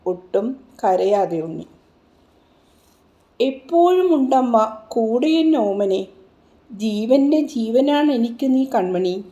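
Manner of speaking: lilting, rhythmic verse reading; chanted cradle-song verse; lullaby recitation. A narrator's reading. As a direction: recite it as a mother's lullaby, in measured swells.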